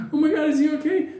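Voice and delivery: high-pitched mock worry; imitating a flustered old woman; worried old lady. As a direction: ask anxiously in a high voice. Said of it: "she's getting really".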